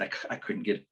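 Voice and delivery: halting stutter on the first word. Retold or imitated. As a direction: catch on the c and restart. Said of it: "that's how he was talking".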